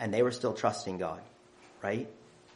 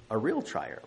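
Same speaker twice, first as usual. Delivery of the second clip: softer, settling repeat of the phrase; preacher echoes his point, dropping softer; quiet echo; 5 dB quieter than usual. Real, not acted. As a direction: let the repeat fall gently. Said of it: "They were in a real trial".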